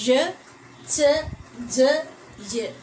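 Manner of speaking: ഴ, ച, ജ, യ as separate "zhuh, chuh, juh, yuh"; teacher demonstrating ഴ, ച, ജ, യ as single syllables; isolated palato-alveolar sounds. Shown as a demonstration. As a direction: sound out ഴ, ച, ജ, യ one by one, pausing after each. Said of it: "These all are comes under palato alveolar sounds".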